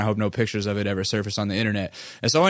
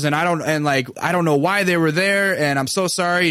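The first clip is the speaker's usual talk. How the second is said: put-on apologetic girl; 5 semitones higher than usual. Girl on phone apologizing profusely.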